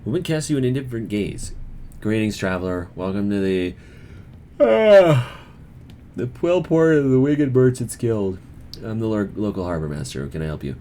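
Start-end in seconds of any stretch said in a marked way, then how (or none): 2.0-10.8 lightly voiced harbor master, polite; a touch of a stiff official greeting travelers. Harbor master welcoming a traveler, lightly voiced.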